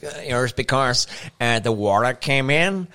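slow, drawn-out retelling of the American; lightly voiced American, dragging the words out; hesitant mock excuse, slowly; imitated American tourist. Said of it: "nu lyder han italiensk".

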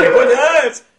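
very high, full-volume yell; over-the-top mock-angry shout; shouted insult. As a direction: scream the insult back, playing it up. Shouted comic insult repeated.

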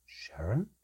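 a cold, calm whisper; ominous calm whisper. A narrator's reading. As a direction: elf whispering the mother's name ominously. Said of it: "in an ominously calm voice".

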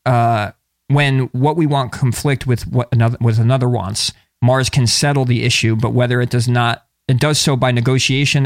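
even, measured book-excerpt read; reading aloud. Acted. Podcast host reading an astrology book excerpt, reading aloud. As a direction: read it out from the page.

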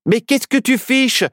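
high, agitated protest; high-pitched anxious outburst; worried. A narrator's reading. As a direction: plead with the witch to stop, alarmed. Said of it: "s'inquiéta Nao".

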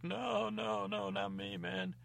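high, frightened squeak of a voice; scared little cheese. Acted. Frightened cheese denies blame.

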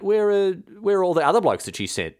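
villagers suddenly wondering where the envoys went; puzzled Drevlians asking. Retold or imitated. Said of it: "and the Drevlians ask".

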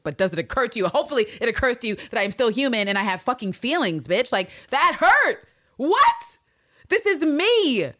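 Lister's hurt turning to a high, loud outcry; indignant outcry. Retold or imitated. Podcaster as Lister answering Walker's slurs, high and loud. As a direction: shout back how much that hurt. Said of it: "Anne Lister's just like".

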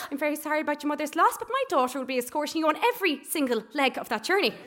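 fast, high, loud headmistress decree; principal style. Retold or imitated. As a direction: lay down the law like a school principal. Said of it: "just true principal style".

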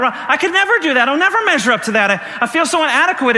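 acted self-doubt. Voices believer who feels inadequate.

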